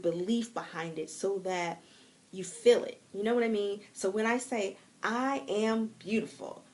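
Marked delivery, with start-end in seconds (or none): 5.0-6.6 slow, proud, smiling affirmation; every word given full weight; said with a smile. Shown as a demonstration. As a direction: say it with belief, smiling. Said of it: "I say it with a smile".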